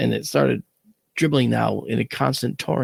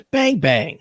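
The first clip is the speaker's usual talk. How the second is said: Bang, bang said louder and higher with a rising tune; louder playful Bang, bang; mock gunshots; 5 semitones higher, 4 dB louder than usual. Shown as a demonstration. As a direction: punch out Bang, bang like pretend shots. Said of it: "I just said, "Bang, bang".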